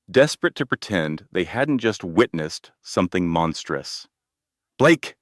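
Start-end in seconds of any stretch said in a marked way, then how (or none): 4.8-5.2 high, loud scream of his name. A narrator's reading. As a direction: scream after him in despair. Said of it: "Elena screamed".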